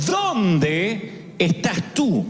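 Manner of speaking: stretched, gentle where are you; slow tender call. Retold or imitated. God calls to the hiding Adam, slow and gentle. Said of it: "Dios lo llamó y le preguntó".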